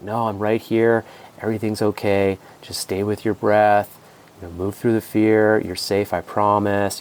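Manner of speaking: slow, soothing calm reassurance; reassuring dad. Retold or imitated. Dad soothing his frightened child, slow and reassuring. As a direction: gently talk a scared kid down, slowly.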